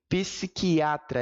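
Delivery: syllable-by-syllable demo; silabação. Shown as a demonstration. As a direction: sound out psiquiatra slowly. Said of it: "em respirações diferentes". (silabando a palavra)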